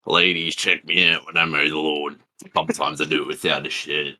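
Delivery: lightly played Aussie bogan accent; Barry. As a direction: show off in put-on Queensland Australian. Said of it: "You're too good at that accent".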